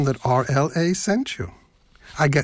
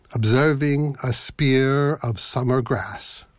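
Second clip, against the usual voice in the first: poem reading. Acted. Reads the poem aloud.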